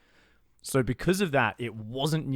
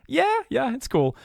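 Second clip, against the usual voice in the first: sarcastic agreement; 14 semitones higher, 7 dB louder, slower than usual. Retold or imitated. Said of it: "And I'm like".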